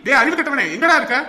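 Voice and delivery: loud, high shout; furious call; bellowing. Acted. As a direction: roar for the culprit. Brother bellowing for Ravi.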